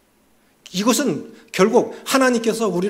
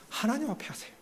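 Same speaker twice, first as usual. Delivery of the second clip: gentle soft urging; 6 semitones higher, 12 dB quieter than usual. Real, not acted. Gentle repeated exhortation.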